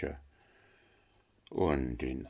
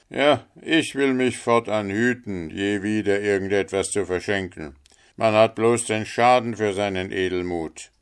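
lightly acted miller, louder, full of self-pity; grumbling miller; 3 semitones higher, 5 dB louder than usual. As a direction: complain loudly about your own trouble. Figure of the miller complaining. (leicht gespielter Müller, laut klagend)

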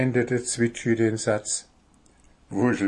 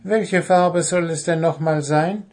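goblin; 6 semitones higher, 4 dB louder than usual. Acted. Goblin asks.

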